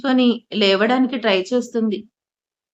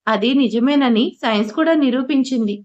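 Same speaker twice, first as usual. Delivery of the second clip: plain reading voice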